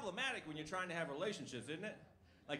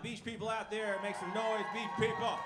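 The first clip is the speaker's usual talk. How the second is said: crowd hype shout; 3 semitones higher, 4 dB louder than usual. Real, not acted. Hyping the crowd.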